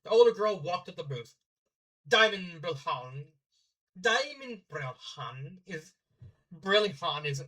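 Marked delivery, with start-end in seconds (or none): 2.1-7.4 slow, put-on Norse accent. Shown as a demonstration. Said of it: "I can't say something like Han without, like, doing Norse".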